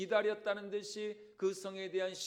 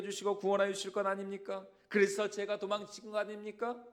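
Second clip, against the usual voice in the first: huffing complaint; 3 semitones higher, 4 dB louder than usual. Acted. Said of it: "막 씩씩거리면서 하나님께 이렇게 대들고".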